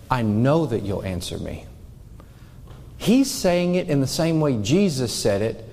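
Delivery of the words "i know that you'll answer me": lower, calm and firm certainty; confident certainty. Shown as a demonstration. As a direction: state it as a settled fact. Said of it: "No, he's saying it".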